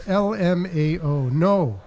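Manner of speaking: giggling read-aloud; laughing while reading. Acted. Reading text exchange.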